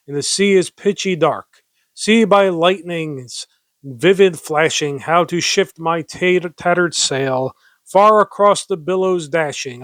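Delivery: lively, declaimed verse reading; poem recitation. Acted. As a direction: read the verse out with theatrical emphasis. Reads a poem aloud.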